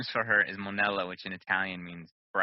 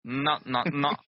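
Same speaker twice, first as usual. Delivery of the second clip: fussy repeated no; fussy wife saying no; imitating wife; 4 semitones higher, 3 dB louder than usual. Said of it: "I always imitate her".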